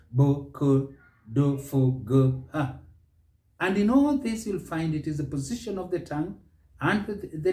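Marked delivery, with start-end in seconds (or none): 0.1-2.8 each consonant sounded as a short syllable; consonant sounds. Shown as a demonstration. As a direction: sound out "Bo, ko, do, fo, go, ha" separately. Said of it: "six consonants in the English alphabet".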